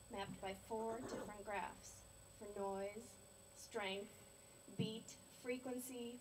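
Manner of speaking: measured, solemn poetry recital; careful verse delivery, phrase by phrase; poem reading. Acted. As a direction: recite each image deliberately, with pauses between. Reads poem about grandmother in hospital.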